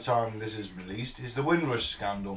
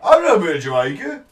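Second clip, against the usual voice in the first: mock Black Country man; 6 semitones higher, 10 dB louder than usual. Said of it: "this one guy was like".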